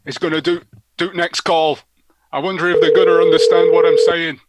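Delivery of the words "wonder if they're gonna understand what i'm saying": put-on Northwestern English accent, louder at the end; Wigan accent. Percy introduced before the next prank call, Wigan accent. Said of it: "And do the Wigan accent".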